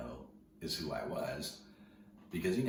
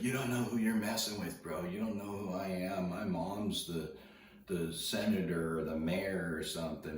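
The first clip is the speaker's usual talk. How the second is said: put-on higher, cocky punk-kid voice, lightly done; tough kid bragging; 4 semitones higher than usual. Surfer imitating the punk kid threatening him, higher cocky voice. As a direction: brag like a spoiled punk who thinks he's untouchable.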